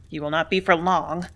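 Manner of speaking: understated growl. A narrator's reading. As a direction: grumble it menacingly. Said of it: "growled Mayberry".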